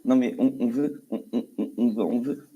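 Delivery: stutter. Real, not acted. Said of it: "Tu bégayes".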